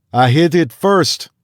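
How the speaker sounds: high, loud, slow Cajun boast; Louisiana boast. A narrator's reading. Louisiana hunter claiming the kill, loud slow Cajun boast. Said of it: "said the man from Louisiana".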